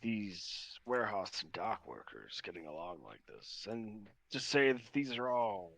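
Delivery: Miguel, musing approval. Acted. Game master voices Miguel admiring fights.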